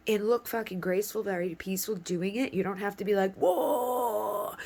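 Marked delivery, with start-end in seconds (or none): 3.4-4.6 drawn-out higher mock cry; playful imitation of panic; mock alarm. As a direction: overreact with a long, hammed-up cry. Mimes frantic overreaction to avoid.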